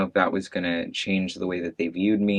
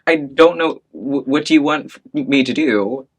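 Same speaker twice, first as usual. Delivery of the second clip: imitating mom; 6 semitones higher, 6 dB louder than usual. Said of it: "And she's just like".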